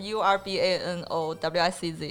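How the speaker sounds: letters read out one by one; spelling it out. Shown as a demonstration. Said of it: "呃，叫，我，我拼一下，".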